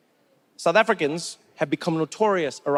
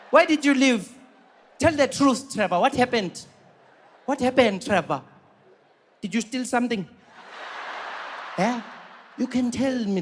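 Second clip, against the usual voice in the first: lively South African coworker voice, teasing Trevor; a nosy South African colleague needling him about the job; South African accent; 4 semitones higher than usual. Acted. Coworker accusing Trevor of stealing, in a South African accent.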